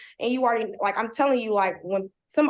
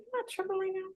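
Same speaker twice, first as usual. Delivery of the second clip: high hushed whisper; disbelieving under-breath question; hushed disbelief; 9 semitones higher, 12 dB quieter, faster than usual. Retold or imitated. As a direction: whisper it, afraid to be heard. Whispering while he touches her.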